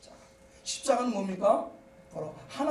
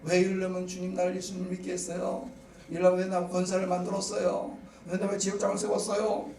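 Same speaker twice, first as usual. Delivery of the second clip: complaining; 6 semitones lower than usual. Acted. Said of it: "불평도 하고 원망도 하고".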